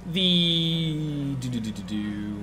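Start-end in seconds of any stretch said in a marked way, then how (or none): 1.4-2.4 low, soft doo-doo-doo while looking something up; idle vocal filler, quietly trailing along; absent-minded doo-doo filler. Real, not acted. Filling time while checking notes.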